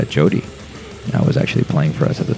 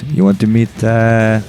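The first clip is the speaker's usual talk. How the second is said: higher-pitched, rough Russian imitation; attempted Russian accent; 6 semitones higher, 4 dB louder than usual. Drummer inviting him to meet the band, attempted Russian accent. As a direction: put on an amateur Russian accent. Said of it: "he's gonna be Russian, just so you guys know".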